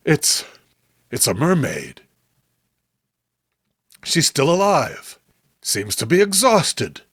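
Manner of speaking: lightly entranced, trailing off in disbelief; awestruck Robert. Acted. Robert to John on seeing the mermaid, hushed wonder.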